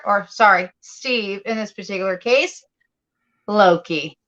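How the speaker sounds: lightly voiced old radio announcer; 1950s narrator. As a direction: read it like a vintage radio host. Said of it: "I will do 'em in a very good voice".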